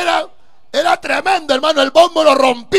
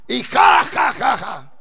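mock laughter; 3 semitones lower, slower than usual. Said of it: "La gente se burlaba".

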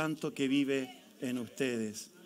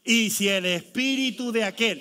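louder retake; 3 semitones higher, 5 dB louder than usual. Shown as a demonstration. Pastor making the church reread the verse louder. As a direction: read it louder with more punch. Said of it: "Otra vez".

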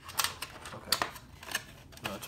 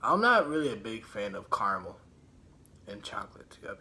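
talking while chewing; muffled chewy speech; mouth full, chewing; 6 semitones lower than usual. Real, not acted. Seen 0: Lips pressed, jaw working between words; ate just before.

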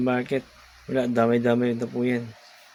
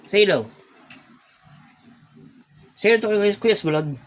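high, louder cooing to a pet; 8 semitones higher, 4 dB louder, faster than usual. Real, not acted. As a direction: coo at the sulking cat. Coaxing cat to greet. (malambing na baby talk sa pusa)

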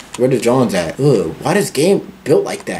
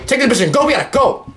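higher, pressing repeat; urgent; 10 semitones higher, faster than usual. Real, not acted. Gamer rushes to grab the relic, urgent. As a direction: hurry it up.

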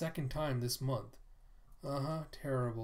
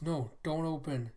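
panicked cry; 5 semitones higher, 7 dB louder, slower than usual. Acted. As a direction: voice jumps to a pained yelp. Character attacked, cries out.

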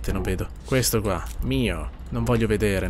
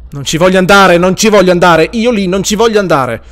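louder, higher frantic protest; panicked refusal; 4 semitones higher, 10 dB louder than usual. Real, not acted. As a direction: yell your refusal in fear. (urlando di paura, non ci voglio andare)

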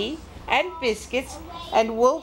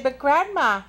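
higher, slow sing-song wonder; amazed little girl; 5 semitones higher, slower than usual. Acted. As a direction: marvel at Grandma, stretching it out. Girl amazed at strange Grandma.

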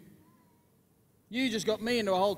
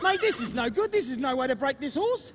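strained protest; 6 semitones higher, 7 dB louder than usual. Acted. Protesting while horse bucks.

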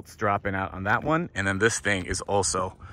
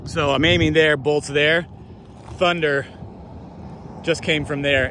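excited narration; 5 semitones higher, 3 dB louder than usual. Real, not acted. Thunder close by.

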